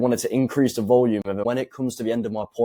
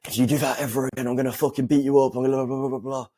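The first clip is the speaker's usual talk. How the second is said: higher and fast, worked-up threat; mock emotional screaming; 5 semitones higher, faster than usual. Shown as a demonstration. Coach mocking a hothead threatening a man, higher and fast. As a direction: blurt it out all emotional. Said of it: "you start screaming and you start acting all emotional".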